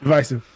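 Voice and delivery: "Divisive" said as di-VYE-sive with a long i. Shown as a demonstration. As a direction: stress the middle syllable "Divisive", vye like "eye". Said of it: "Do you guys say divisive?".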